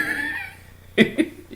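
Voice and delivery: high burst of laughter; amused laugh. Real, not acted. Tickled by the man's funny accent, laughing. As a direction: laugh out loud, pitched high.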